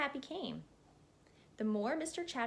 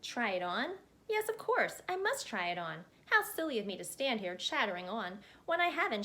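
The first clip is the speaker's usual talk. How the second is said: lightly voiced chatterbox; 3 dB louder than usual. Mister Chatterbox rambling at the hat maker, lightly voiced chatterbox. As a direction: babble on breathlessly, barely pausing, as a chatty little man.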